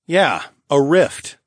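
slow, pointed comeback; sharp retort. Acted. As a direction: fire it back at her. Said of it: "I shot back".

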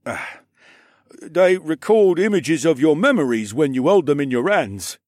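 put-on high boy voice, chewing cake; mouth full. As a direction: mumble through a mouthful. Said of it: "mumbled through a mouthful of cake".

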